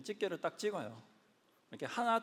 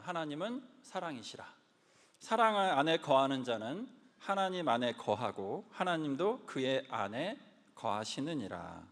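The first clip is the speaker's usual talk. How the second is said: slow, solemn Bible recitation; scripture reading. Acted. Pastor reading 1 John to the congregation, slow and solemn. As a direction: read the verse slowly and reverently.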